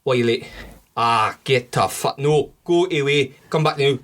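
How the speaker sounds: Scottish accent attempt. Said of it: "He sounds Indian".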